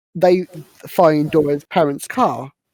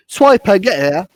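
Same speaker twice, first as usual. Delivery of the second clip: raised, punchy call to a cartoon fox; mock call-out; 4 semitones higher, 5 dB louder than usual. Retelling the film, shouting at Swiper the fox, mock call-out. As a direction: call out sharply, in play.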